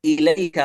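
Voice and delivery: إليك with the kaf said fully and distinctly; clear kaf. Shown as a demonstration. Teacher marking the clear kaf after a sukun. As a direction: sound the final k of إليك clearly, no merging. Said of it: "نحو قوله".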